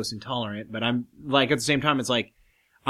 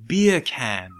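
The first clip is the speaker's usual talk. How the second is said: English accent. Shown as a demonstration. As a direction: say beer can the English way with no R. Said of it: "an English accent, so you would drop the R".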